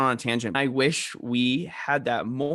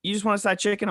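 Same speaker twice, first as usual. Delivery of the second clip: Southern lady voice; 9 semitones higher than usual. Retold or imitated. Cashier offering chicken, imitated in a high sweet Southern accent. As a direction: mimic a doting Southern lady calling you honey. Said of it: "she's got a Southern accent".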